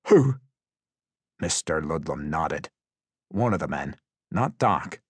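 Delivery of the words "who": high, loud, startled question; panicked one-word query; bewildered prisoner. A narrator's reading. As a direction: blurt it out in confusion. Frightened prisoner answering interrogator.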